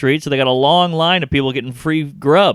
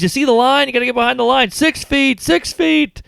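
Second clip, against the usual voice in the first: put-on much higher snapping old-man voice; high-pitched mock old man yelling; angry old man; 10 semitones higher than usual. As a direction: play a panicky old man barking to back off. Old man scolding about line.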